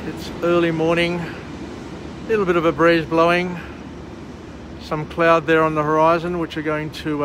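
speaking through a face mask; muffled, covered-mouth voice. Real, not acted. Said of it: "hence my muffled voice 'cause I'm wearing a mask".

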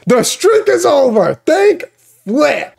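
sudden high-pitched excitement; excited. Real, not acted. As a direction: burst out with the news, voice jumping up. Excited recap of surprise result.

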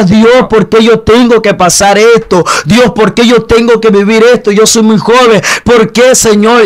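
pleading with God through remembered tears; crying out to God. Retold or imitated. Teenager alone in a hole crying to God, loud tearful plea. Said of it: "Lloraba y le decía".

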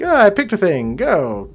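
high, loud rushed quip; hurried. Retold or imitated. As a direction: blurt it out in a rush. Acting hurried streamer.

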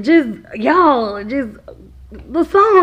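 halting, high mock-tearful reply; retold weepy answer; imitating tearful child. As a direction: stumble over it like an upset little boy. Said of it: "busted out in these tears".

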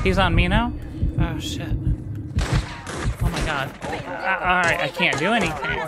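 frantic while enemies close in; being chased. Real, not acted. Pyro and shield guys chasing her.

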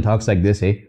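lightly put-on Canadian accent; a hint of mock Canadian. Shown as a demonstration. Joking to friends about an unlikely villain, mock Canadian accent. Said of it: "Talks like a Canadian moose".

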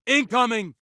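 high battle warning call; urgent warning. Acted. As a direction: warn the squad of danger. Combat warning.

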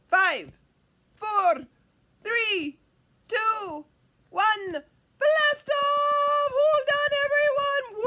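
building from a loud count to a high, loud blast off; excited countdown. Pretend. Storyteller launches the pretend carpet ride, excited and loud. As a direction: launch the carpet with a big cheer.

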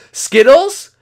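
very high, loud crying shouts of joy; overjoyed Skittles. Acted. Skittles greeting his dad again, very high and overjoyed. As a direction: shriek with delight at seeing Dad.

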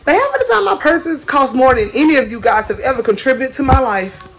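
playful, snobbish boast; mock diva boast. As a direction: lord it over them. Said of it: "I'm just joking".

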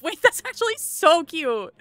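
high, slow, laughing over something cute; laughing coo. Real, not acted. Watching her Sims pair off, a slow laughing coo. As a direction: melt into a giggly coo. Couples paired off in game.

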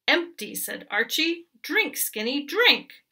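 commanding goat. Acted.

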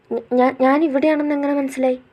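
flustered stammer at being caught; startled stammer. Acted. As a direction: caught off guard, tripping over the start. Caught in his cabin.

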